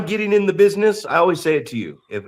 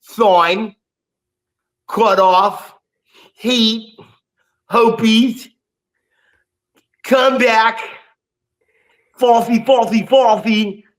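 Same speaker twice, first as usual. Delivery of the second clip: match formula rundown; 3 semitones higher, slower than usual. Shown as a demonstration. Comedian to crowd, rattling off the wrestling formula, hyped. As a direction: tick off the formula with mounting hype. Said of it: "They have the formula".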